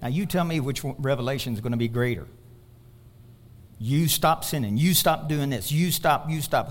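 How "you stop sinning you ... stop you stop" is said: "You" punched at the start of each phrase; stress on YOU. Shown as a demonstration. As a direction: lean on "You" each time, low-pitched. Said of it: "Who's the emphasis on when we talk like that?".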